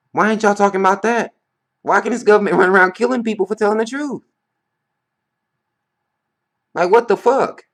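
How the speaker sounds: high, loud, exasperated what-the-fuck with a laugh; incredulous high outburst. Real, not acted. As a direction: throw up your hands in disbelief, half laughing.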